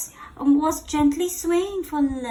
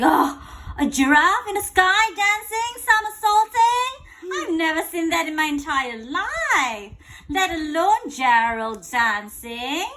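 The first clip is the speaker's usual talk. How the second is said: a hint of an amazed elephant, slightly higher; astonished elephant; 4 semitones higher, 4 dB louder than usual. Teacher voicing the elephant amazed at Gerald. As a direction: gasp it out in wonder.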